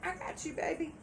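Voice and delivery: mimicking a smooth-talking partner, climbing high; mock sweet-talker. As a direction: croon empty promises to your baby. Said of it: "they sat there and told".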